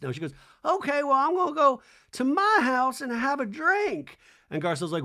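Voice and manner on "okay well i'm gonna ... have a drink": put-on high, loud old Southern lady. A singer leaving the guests for a drink, breezy old lady. The singer's voice imitated.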